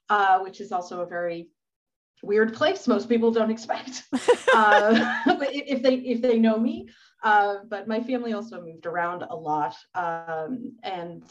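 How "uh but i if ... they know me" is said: talking through a light laugh. Real, not acted. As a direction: let a chuckle spill into the words. Laughs at her own remark.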